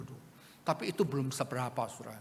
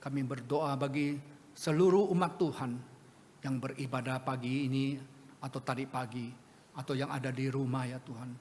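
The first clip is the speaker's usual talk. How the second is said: earnest pastoral prayer. Real, not acted. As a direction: pray for the congregation, steady and sincere. Leads a closing prayer.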